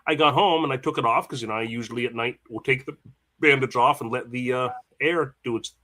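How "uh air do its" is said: talking through hiccups; words broken by hiccups. Real, not acted. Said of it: "Excuse me, I got the hiccups".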